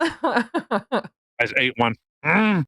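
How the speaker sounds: talking with a mouthful; chewing a pepper while talking; mouth full. Real, not acted. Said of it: "I could tell you had something in your mouth".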